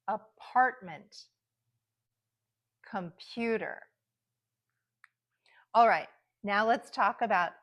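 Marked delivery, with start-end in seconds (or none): 0.1-1.2 Apartment slowly, PART strong, ends reduced; careful, slow model of Apartment; middle-syllable stress. Shown as a demonstration. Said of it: "sometimes the stress is in the middle". 2.9-3.8 Computer with stressed PU and weak outer syllables; careful model of Computer, reduced first and last syllables; middle-syllable stress. Shown as a demonstration. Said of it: "sometimes the stress is in the middle".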